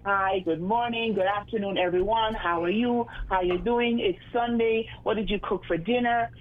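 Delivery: measured, proper English greeting; English accent, neatly spoken; straight English. Shown as a demonstration. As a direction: demonstrate a polite English radio host. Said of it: "Are you gonna be straight English".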